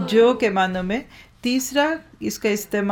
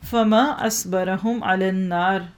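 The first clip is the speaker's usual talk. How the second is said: slow recitation of wonder; slower than usual. Shown as a demonstration. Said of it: "typical करें".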